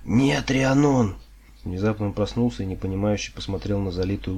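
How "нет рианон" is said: high, loud, drawn-out cry; cried out. A narrator's reading. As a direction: cry out from a nightmare, very slowly. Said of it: "Карс вскрикнул". (протяжный вскрик во сне)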